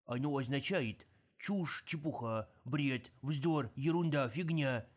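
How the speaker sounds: gleeful. Acted. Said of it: "с радостью объяснил Мульч".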